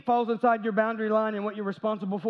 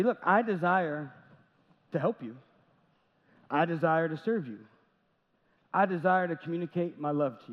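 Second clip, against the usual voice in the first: sincere reply; 3 semitones lower than usual. Retold or imitated. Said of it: "my response would be".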